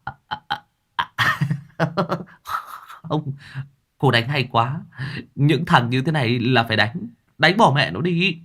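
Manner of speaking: startled stammer. A narrator's reading. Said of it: "giật mình lắp bắp".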